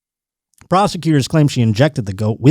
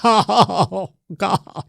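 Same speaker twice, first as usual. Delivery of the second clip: high, drawn-out camp exclamation; hammed-up comic actor impression; Paul Lynde; 7 semitones higher than usual. Demonstrating how the gay comedian talked, camp impression. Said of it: "That's how he'd talk".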